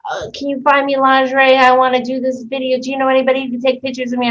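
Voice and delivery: imitating the customer. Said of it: "she's like".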